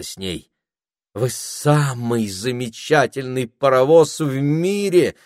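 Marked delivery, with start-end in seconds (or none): 1.1-5.1 put-on girl voice. A narrator's reading. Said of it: "сказала Пенелопа".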